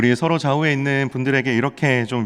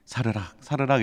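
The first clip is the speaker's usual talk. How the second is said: hushed imitation of melting snow; delicate, quiet sound word; soft snow-melt sound; 5 dB quieter than usual. Shown as a demonstration. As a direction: let it rustle softly, like thawing snow.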